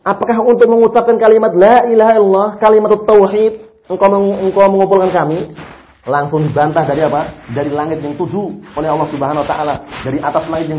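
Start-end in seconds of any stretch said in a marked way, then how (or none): 0.1-5.5 a mild acted sneer at Muhammad; insolent retort. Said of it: "Lancangnya seperti itu".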